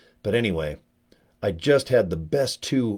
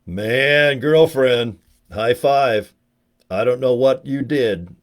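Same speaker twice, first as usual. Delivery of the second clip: loud hyped praise; 2 semitones higher, 5 dB louder, much slower than usual. Retold or imitated. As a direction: hype her up like a buddy. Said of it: "I just wanna stand by her and go".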